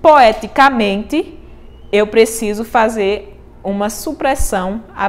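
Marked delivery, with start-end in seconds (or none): 0.0-1.4 slow, stretched "Poeticamente"; syllable count. Shown as a demonstration. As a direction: draw out "Poeticamente" slowly. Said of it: "três sílabas gramaticais". ("Poeticamente" dito devagar e alongado)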